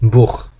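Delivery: "부흐" ending in a throaty rasp; German Buch, ach-sound. Shown as a demonstration. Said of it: "여기서는".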